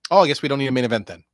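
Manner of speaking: usual speaking voice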